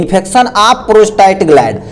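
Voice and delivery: very slow, word by word; slow dictation. Shown as a demonstration. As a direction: dictate it slowly for notes. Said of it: "क्या बोलते हैं?".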